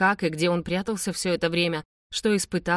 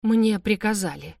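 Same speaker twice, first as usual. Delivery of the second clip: plain reading voice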